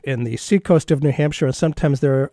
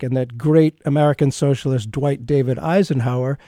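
sarcastic. Acted. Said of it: "And I'm being sarcastic there".

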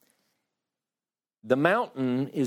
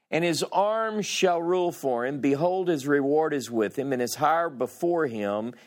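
scripture reading. Acted. Teacher reading of the shepherd to the class, gentle and measured. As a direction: read it gently, like a shepherd's care.

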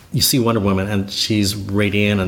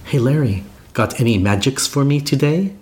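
imitated Israeli accent, pitched higher; 4 semitones higher than usual. Actress asking colleague for a magic trick, imitated Israeli accent. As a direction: lightly mimic a woman's Israeli accent, higher. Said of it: "in her Israeli awesome accent".

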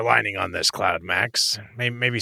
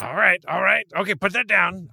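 alarmed; 8 semitones higher than usual. Acted. Friend faces someone holding knife.

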